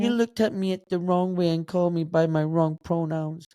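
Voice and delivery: put-on aggrieved complaint; mock offended. Blunt Glaswegian mocking the easily offended, mock aggrieved. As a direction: imitate someone taking petty offence. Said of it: "No, we don't do that stuff".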